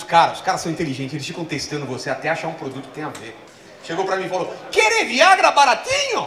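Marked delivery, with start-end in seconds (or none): 4.7-6.3 high, slow, loud seller voice; sly hawker. Retold or imitated. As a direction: offer it slyly. Street seller offering Viagra.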